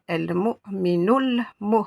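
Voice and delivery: "el mu'minul mu" read slowly, words run together; slow linked reading. Shown as a demonstration. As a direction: link it all slowly for the class. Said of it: "si je devais relier tout ça".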